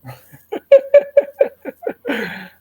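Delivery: high, loud wheezing giggle; long laugh. Real, not acted. Storyteller amused by cousin overhearing the prayers, long high laugh. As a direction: crack up helplessly at your own story.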